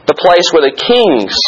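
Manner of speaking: "king's" stretched out slowly at the end; stress on king's. Shown as a demonstration. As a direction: underline the word "king's", drawing it out. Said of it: "underline that".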